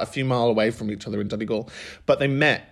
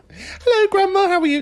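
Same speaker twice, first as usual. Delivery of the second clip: much higher and louder, calling to a deaf grandma; mock shout down the phone; 6 dB louder than usual. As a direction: bellow it so she can hear you.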